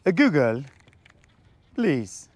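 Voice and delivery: hammed-up French accent asking the phone to text; jokey French accent talking to the phone; mock French accent. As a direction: poke fun at a friend with a put-on French accent. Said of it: "I just assume you have a French accent".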